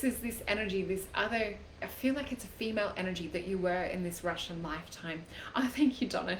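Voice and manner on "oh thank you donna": a quick breathy whisper of thanks. Real, not acted. Reader thanks a viewer during a live card reading, whispered. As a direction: whisper it aside, just for her.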